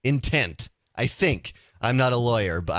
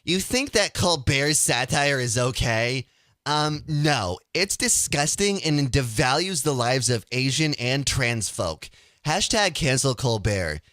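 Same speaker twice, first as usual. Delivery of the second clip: mock-whiny reading of an offended tweet. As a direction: read it as a lightly whiny, indignant liberal. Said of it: "read them in a whiny voice".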